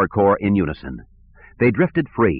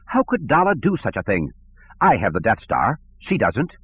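whiny bureaucrat; 3 semitones higher than usual. Acted. Sivron indignant.

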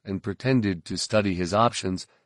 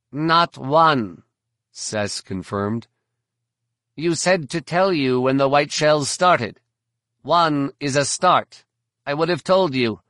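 higher and louder, a chirpy alien guide; high insectoid alien voice; 6 semitones higher, 6 dB louder than usual. A narrator's reading. Verpine guide answering the bounty hunter, high and eager. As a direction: pitch it up like an eager insect creature. Sess confirms.

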